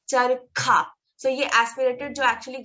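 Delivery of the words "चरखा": चरखा said with a strong airy kh; teacher models चरखा, pushing out air on kh; model word. Shown as a demonstration. Teacher to students, careful aspirated model. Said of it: "and चरखा".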